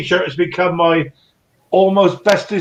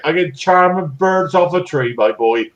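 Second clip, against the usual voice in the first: put-on West Country accent; 2 semitones lower than usual. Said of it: "He gives it all that accent".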